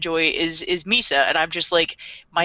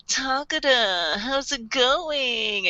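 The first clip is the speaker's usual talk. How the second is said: smooth slow greeting; 4 semitones higher, much slower than usual. Retold or imitated. Light calling smoothly.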